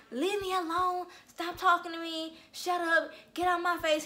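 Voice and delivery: mocking whiny boyfriend. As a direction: imitate a sulking grown man like a baby. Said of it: "like a little fucking baby".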